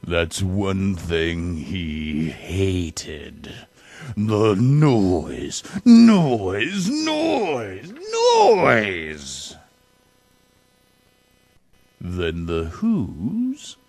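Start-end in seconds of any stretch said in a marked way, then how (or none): 4.2-9.6 noise after noise, rising higher and louder; mounting mock irritation; building exasperation. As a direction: wind yourself up over the racket. Grinch hating the Whos' noise.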